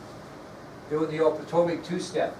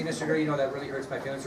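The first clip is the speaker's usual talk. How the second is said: softer, gentle pretend complaint; saying it nicely; 3 dB quieter, faster than usual. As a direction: politely act out mildly hurt feelings. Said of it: "you could tell me nicely".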